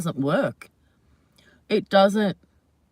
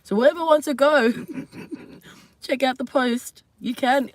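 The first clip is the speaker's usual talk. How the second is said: excited; 5 semitones higher, 3 dB louder than usual. Real, not acted. Excited invitation to viewers.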